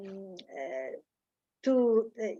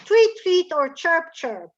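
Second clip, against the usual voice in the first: light bird chirps; 3 semitones higher, 5 dB louder than usual. Shown as a demonstration. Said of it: "and sings".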